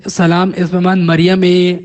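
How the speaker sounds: اے said as a short e, not است; spoken e ending. Shown as a demonstration. Teacher reads the Farsi greeting aloud, with a short e ending. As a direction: drop است and say اے. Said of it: "اس کو اے پڑھا".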